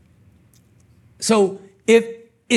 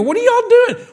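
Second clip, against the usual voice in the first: shouted rebuke; 14 semitones higher than usual. Acted. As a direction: throw it up to the rafters. Climax of repeated rebukes.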